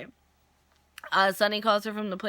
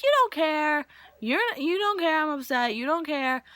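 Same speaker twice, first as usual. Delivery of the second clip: retold upset accusation; 6 semitones higher than usual. Acts out upset woman in recap.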